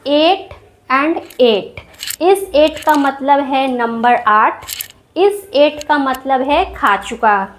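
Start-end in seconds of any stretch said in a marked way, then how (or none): 0.1-1.9 each eight drawn out very slowly; slow demo. Shown as a demonstration. Teacher slowly saying eight and eight to students. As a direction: spell out both eights slowly for the class. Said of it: "For example".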